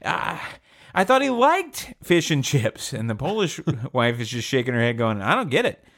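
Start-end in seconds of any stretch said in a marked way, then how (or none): 0.0-2.9 high, slow widow's lament; mock crying. English widow at the funeral, mock-tearful. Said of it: "and they're crying". 5.2-5.8 raised-pitch puzzled widow; baffled. Acted. Polish widow shaking her head, baffled.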